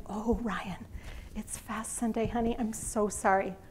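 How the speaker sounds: soft, apologetic, quietly sorry; gentle apology. Retold or imitated. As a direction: break the news gently, softly. Telling son it's fast Sunday.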